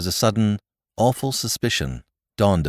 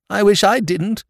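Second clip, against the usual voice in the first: wistful; 5 dB louder than usual. A narrator's reading. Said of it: "said his lordship wistfully".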